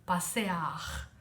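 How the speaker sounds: Passear said fully as pa-se-ar with a final r; careful spelling pronunciation. Shown as a demonstration. Teacher repeating the written form of passear. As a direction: Passear sounded syllable by syllable. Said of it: "você escreve passear".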